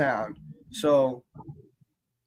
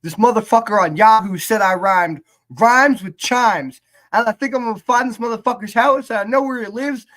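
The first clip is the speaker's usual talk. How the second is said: imitating a rapper's skit; 6 semitones higher, 6 dB louder than usual. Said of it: "he has this skit ... where he's like".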